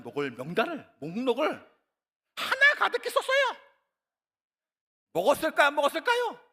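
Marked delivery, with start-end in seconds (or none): 2.3-6.4 excited. Real, not acted. Excited list of foods.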